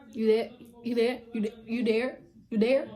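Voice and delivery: loud repeated call under the stalls. Retold or imitated. Calling under the bathroom stalls for a girl, loud call.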